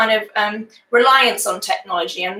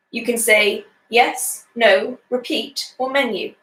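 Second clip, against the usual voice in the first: automated phone robot. Acted. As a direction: lightly mimic a phone menu reading options. Robot phone menu reads options.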